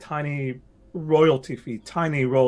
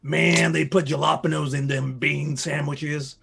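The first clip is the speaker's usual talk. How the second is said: mock Mexican accent; slower than usual. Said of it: "speak in a mock Mexican accent".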